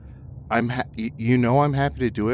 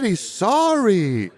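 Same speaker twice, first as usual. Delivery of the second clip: mocking; 9 semitones higher, much slower than usual. Mocking drawn out.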